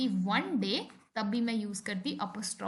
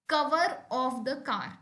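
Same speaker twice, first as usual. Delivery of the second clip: slow, deliberate reading of an example; slow example sentence; much slower than usual. Shown as a demonstration. Teacher reading an example to students, slow and clear. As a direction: spell it out slowly for the class. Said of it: "use करते हैं of".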